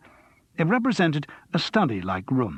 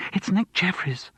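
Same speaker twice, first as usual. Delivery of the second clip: gasped; 7 semitones higher than usual. A narrator's reading. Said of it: "she gasped".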